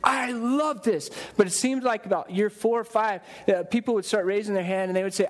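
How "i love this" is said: higher, drawn-out mock gushing; slow, passionate gush, acted out. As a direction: imitate a devoted churchgoer, stretching the words out. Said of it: "they used to be passionate about their church".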